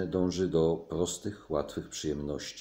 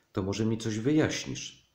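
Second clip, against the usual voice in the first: somewhat impatient, pressing tone; 4 semitones higher than usual. A woman answers a man's nonchalant remarks, rather impatient. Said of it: "powiedziała dość niecierpliwie".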